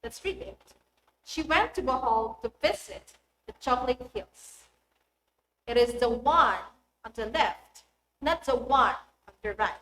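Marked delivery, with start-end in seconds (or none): 1.2-9.7 content words like "Bohol" and "left" emphasized, small words lighter; teacher's reading with stress on "Chocolate Hills" and other content words. Shown as a demonstration. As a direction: lean on the key words "Bohol", "visit", "left" and "right". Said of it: "emphasize those words with increase in loudness".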